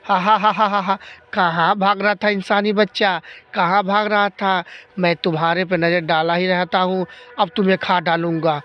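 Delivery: cackling menacing ghost. Acted. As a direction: gloat like a hungry ghost. Ghost laughs at child.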